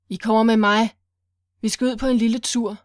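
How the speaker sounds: loud, then a fast mock-friendly second line; menacing command. Kidnapper drags Monique out of the car, loud menacing order. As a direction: threaten them, enjoying it.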